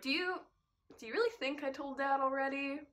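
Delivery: high-pitched disbelieving retort; incredulous. Retold or imitated. Teen answering mom about telling Dad, high incredulous retort.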